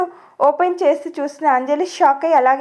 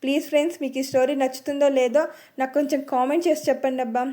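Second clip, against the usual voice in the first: pleading softly; 5 dB quieter than usual. Real, not acted. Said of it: "please మీరు కొంచెం support".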